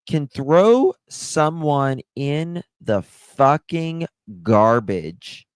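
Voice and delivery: furious disbelief, slowed and pushed hard; pissed off. Real, not acted. To her viewers about the man who killed a child, angry and slow. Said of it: "I get so pissed".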